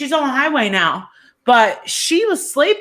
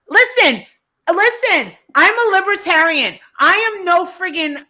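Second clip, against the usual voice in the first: a real angry rant, pitched up; 2 semitones higher than usual. Real, not acted. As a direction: tear into them with angry profanity. Angry rant against liberals.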